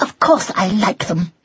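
high, testy mouse voice; angrily. A narrator's reading. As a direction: insist crossly, pitched high. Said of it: "said Drusilla angrily".

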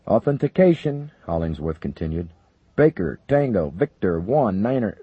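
high, loud radio callout; urgent code readout. Acted. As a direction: call out the code. General reads authentication code.

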